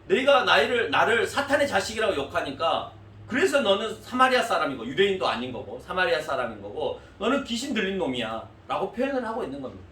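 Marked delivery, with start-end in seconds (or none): 0.1-8.5 loud, high accusing rant; accusing insult. Retold or imitated. Crowd hurling insults at Jesus, loud accusing rant. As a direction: hurl the insult at him.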